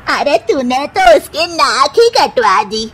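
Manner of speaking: sharp, indignant accusation; mother-in-law scolding her daughter-in-law, indignant; accusing mother-in-law. Acted. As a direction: throw the blame at her.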